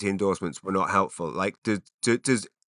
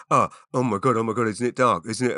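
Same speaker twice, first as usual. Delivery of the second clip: mock moaning. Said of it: "mock moaning about dark evenings".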